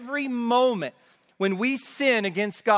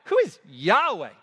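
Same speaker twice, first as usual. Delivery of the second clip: quick "who is", then a heavy Yahweh; stress on Yahweh. Shown as a demonstration. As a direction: punch the name Yahweh with disdain. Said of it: "So the emphasis on Yahweh".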